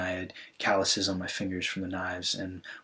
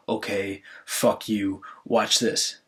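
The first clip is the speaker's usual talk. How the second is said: mildly defiant quote, a little louder; retold defiance; 5 dB louder, much slower than usual. Sibling recalls answering the brother's rejection, mildly defiant. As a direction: recall throwing down a challenge. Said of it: "flipped a switch in me where I was like".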